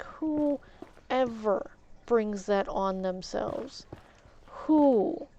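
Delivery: slow, emphatic rhetorical question; incredulous. Retold or imitated. Disbelieving retort to victim blaming.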